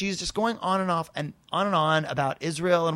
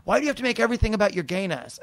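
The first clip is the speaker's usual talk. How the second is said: fast, raised mock demand; retold screaming; 4 semitones higher, faster than usual. Woman up in narrator's face, quick mild mock yell. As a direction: imitate a screamer without really screaming. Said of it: "like, screaming".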